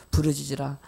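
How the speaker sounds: 부르짖으라 dropped low as scripture; scripture reading. Shown as a demonstration. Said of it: "예레미야서 삼십삼 장 삼 절에 보면요".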